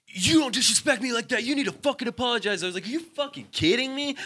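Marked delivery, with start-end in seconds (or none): 0.1-2.6 high, strained imitation of an aggressor; put-on belligerent outburst; mock angry demand. Acted quarrel, the man's threat. 2.9-4.2 high-pitched, incredulous comeback; heated retold retort; re-enacted outrage. Acted quarrel, own angry reply.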